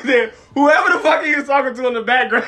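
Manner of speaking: high, loud, laughing retelling; laughing while talking. Real, not acted. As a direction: crack up while telling the story. Amused while mimicking the interview.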